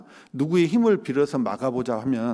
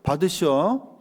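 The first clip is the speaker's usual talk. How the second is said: a light Jeolla dialect "take it"; 2 semitones higher, slower than usual. Retold or imitated. Preacher handing worries to God in a light Jeolla dialect. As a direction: toss it off in a mild Jeolla dialect. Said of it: "전라도 사투리로".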